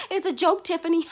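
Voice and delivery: high laughing brush-off; mocking laugh. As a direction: laugh it off as a joke.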